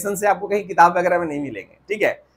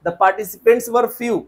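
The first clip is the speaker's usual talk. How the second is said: slow model sentence; slow corrected example; 2 semitones higher, much slower than usual. Shown as a demonstration. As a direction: say the fix slowly. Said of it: "No sir".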